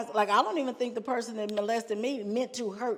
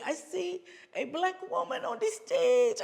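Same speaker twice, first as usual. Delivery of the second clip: high, excited imitation of the lady; high-pitched retold lady; voicing the lady; 13 semitones higher than usual. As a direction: squeal it out like she did.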